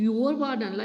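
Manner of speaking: YOUR punched at the start; scornful emphasis on "your"; stress on YOUR. Shown as a demonstration. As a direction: hit "your" dismissively, then drop off. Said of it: "we are speaking in a different tone".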